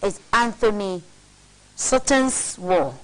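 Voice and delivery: measured read from a printed text; reading aloud. Real, not acted. Co-host reads a conspiracy book to his partner, read aloud. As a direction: read out a weighty passage deliberately.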